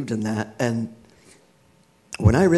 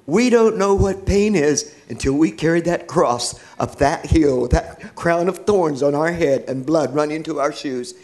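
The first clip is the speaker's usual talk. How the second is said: louder, raised at the start, then easing; imitated emphatic declaration; retold fervent rebuttal; 3 semitones higher, 4 dB louder than usual. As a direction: press it home like a testifying father.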